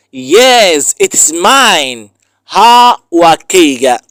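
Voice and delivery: deliberate teacher's model reading; language lesson read-out. Shown as a demonstration. Reads lesson phrases with translations.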